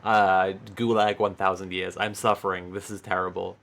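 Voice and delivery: hammed-up wail of suffering, loud at the start then fading; mock a pampered toff moaning about the gulag; mock melodramatic whine. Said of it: "it's just like".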